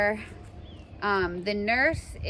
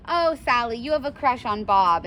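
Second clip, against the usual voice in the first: teasing; 3 semitones higher, 5 dB louder than usual. Pretend. Teasing friend voiced in example.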